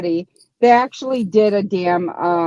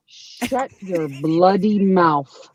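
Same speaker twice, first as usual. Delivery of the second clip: drawn-out slow threat; 3 semitones lower, much slower than usual. Shown as a demonstration. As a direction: say it slowly, each word weighted. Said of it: "but it's too slow".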